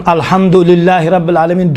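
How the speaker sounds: "الحمدللہ" as one unbroken word, du glued onto lillah; wrongly run together. Shown as a demonstration. Teacher imitating how people pronounce it, run together. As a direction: run "الحمدللہ رب العالمین" straight through without a break. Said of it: "اس طرح سے تلفظ کرتے ہیں".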